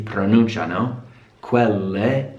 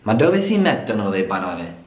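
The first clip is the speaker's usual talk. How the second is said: native Italian phrasing; faster than usual. Shown as a demonstration. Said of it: "the true Italian way to say it".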